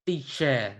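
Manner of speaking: "teacher" said as "tee-sheh"; Burmese pronunciation. Shown as a demonstration. Asking why it changes, "teacher" pronounced "tee-sheh". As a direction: end "teacher" on an open "eh", no r. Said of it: "from teacher to teacher".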